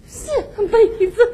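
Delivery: slow, drawn-out tearful wail; tearful, singsong. Acted. Woman turning down her suitor until the next life, tearful singsong. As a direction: sob it out almost like singing. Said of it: "我还寻思谁唱歌呢".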